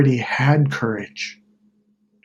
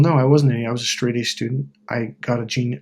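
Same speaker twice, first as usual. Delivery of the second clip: ordinary talk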